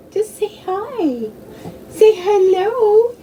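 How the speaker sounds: high sing-song coaxing for a pet. Real, not acted. Talking to her little dog, high coaxing baby talk. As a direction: coax the dog in a high cooing voice.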